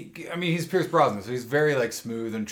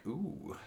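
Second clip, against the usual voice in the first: flirty ooh; 3 semitones higher, 14 dB quieter than usual. Retold or imitated. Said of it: "like, checking him out immediately".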